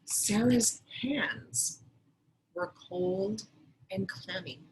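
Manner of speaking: slow, deliberate read-aloud of the sentence; careful teacher model reading; mentor sentence read slowly. Shown as a demonstration. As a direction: lay each word down slowly for the class. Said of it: "the sentence is".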